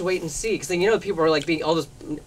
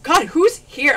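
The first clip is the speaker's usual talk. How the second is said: high, louder startled question; startled retelling; 9 semitones higher, 6 dB louder, slower than usual. Retold or imitated. Shop girl spots paparazzi in trees, startled high question. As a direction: ask it wide-eyed at the window.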